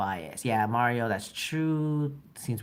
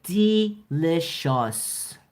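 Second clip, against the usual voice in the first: slow, higher, louder "Delicious"; drawn-out swoon; 6 semitones higher, 6 dB louder, much slower than usual. Retold or imitated. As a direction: savour the word like a crush. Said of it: "That's how, uh, Fabio talks sometimes".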